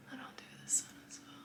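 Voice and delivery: breathless, airy murmur; short of breath while talking. Real, not acted. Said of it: "I'm out of breath".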